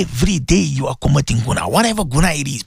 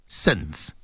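ordinary delivery

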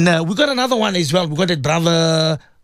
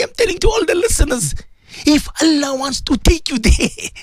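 usual speaking voice

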